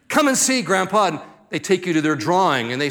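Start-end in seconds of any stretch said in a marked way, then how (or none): 0.1-0.6 put-on high-pitched eager child's call; pitched-up, enthusiastic invitation; excited grandchild. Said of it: "They get so excited". 0.6-1.1 put-on higher, childlike call to Grandpa; lightly acted excitement; excited grandchild. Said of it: "They get so excited".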